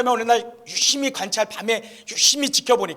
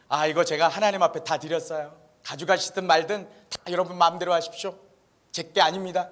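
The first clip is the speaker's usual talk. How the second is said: lower, easygoing retold reply; relaxed, hands-off answer in a lower pitch; smiling unconcern; 4 semitones lower than usual. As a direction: shrug it off as no longer yours. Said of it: "이렇게 웃고 있자".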